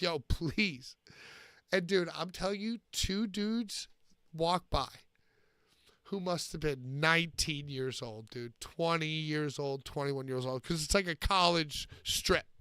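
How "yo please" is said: put-on, begging, pleading tone. Retelling pleading with a drunk friend to go home: retelling a plea. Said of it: "and I'm just like".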